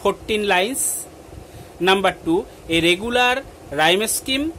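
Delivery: measured classroom read-out; dictation reading. Acted. Teacher listing sonnet features to pupils, measured dictation. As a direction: read it out point by point for note-takers.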